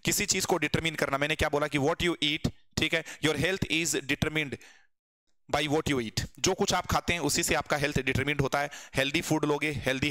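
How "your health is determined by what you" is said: very slow dictation. Shown as a demonstration.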